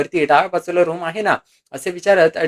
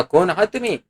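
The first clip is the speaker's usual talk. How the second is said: higher, dismissive brush-off; mildly acted disdain; contemptuous; 5 semitones higher than usual. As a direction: send the person away with scorn. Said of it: "तुच्छतेने म्हणाला".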